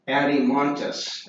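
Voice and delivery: Adimontus said as AD-ee-MON-tus; pronunciation demo. Shown as a demonstration. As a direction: model Adimontus for students, stressing MON. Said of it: "is how you pronounce that".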